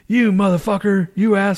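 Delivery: high-pitched mock outrage; retold pissed-off cursing. Retelling his reaction to friend's wrong date, pissed off. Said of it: "Now I'm all pissed off".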